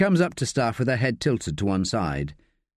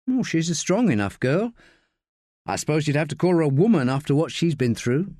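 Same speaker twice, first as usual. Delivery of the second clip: lightly voiced higher woman; Josie, considering; 5 semitones higher than usual. Josie giving Staff her view of Sally, considering. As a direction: weigh it up in a higher character voice.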